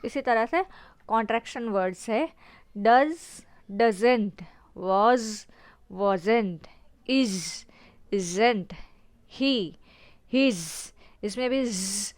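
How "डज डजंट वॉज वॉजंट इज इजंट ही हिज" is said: "डज", "वॉज", "इज", "हिज" with a clear z; word by word, sounding the z in "डज" and "डजंट". Shown as a demonstration. Teacher drilling contractions, z brought out in "डज", "वॉज", "इज". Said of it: "हमें ज का sound".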